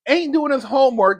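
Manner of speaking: casual "ain't doing his homework" in street grammar; relaxed "ain't" before the self-correction; slangy ain't. Shown as a demonstration. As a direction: throw out "ain't" loosely, then catch yourself. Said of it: "excuse me".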